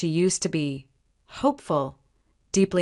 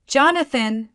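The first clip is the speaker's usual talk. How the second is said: high, louder relieved cry; sobbed name; 8 semitones higher, 4 dB louder than usual. A narrator's reading. Wife sees her husband coming and cries out, relieved. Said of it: "she sobbed".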